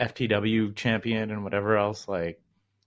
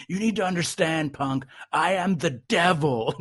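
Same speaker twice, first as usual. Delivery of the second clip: imitated heel promo, higher and slowing down; villainous declaration; 5 semitones higher than usual. Acting out wrestler's villainous promo reveal.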